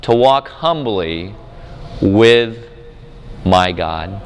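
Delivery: slow, low, calm on "humbly"; settled answer. Shown as a demonstration. Preacher giving the right answer after the wrong one, slow calm. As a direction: let it land gently and slowly.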